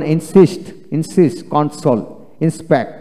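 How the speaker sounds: "ইনসিস্ট" with a dental s opening its second syllable; word examples, "কনসোল" said with s after the n; S in later syllable. Shown as a demonstration. Teacher showing S starting a later syllable, "ইনসিস্ট" with dental s. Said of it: "এরূপ উচ্চারিত হয়".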